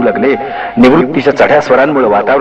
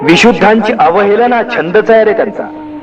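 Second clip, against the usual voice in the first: raised, higher voice, indignant; indignant son venting, higher and sharper; angry outburst; 8 semitones higher than usual. A narrator's reading. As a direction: lash out at the hypocrite priests. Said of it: "संतप्त निवृत्तीचं वाक्य".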